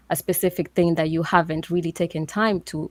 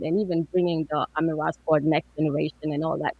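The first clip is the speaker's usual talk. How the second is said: muffled. Real, not acted. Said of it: "I'm sorry, muffled".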